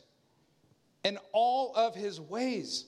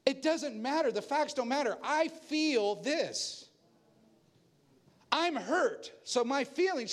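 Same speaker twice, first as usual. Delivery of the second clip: mock indignant; 4 semitones higher than usual. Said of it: "She said".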